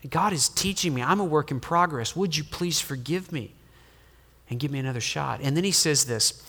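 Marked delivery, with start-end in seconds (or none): 0.1-2.2 put-on soft, humble admission to his children; humble confession. Father humbly admits to his children he's still learning, softly. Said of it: "you humbly say". 2.2-5.4 softer, humble request for forgiveness; humble plea. Retold or imitated. Father asks his children for another chance, softly and humbly. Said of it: "you humbly say".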